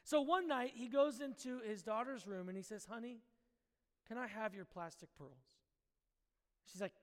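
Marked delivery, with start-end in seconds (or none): 2.9-5.5 softly voiced dad, hushed and tender; gentle asking. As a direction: ask softly, as to a child at bedtime. Dad gently asks daughter at night.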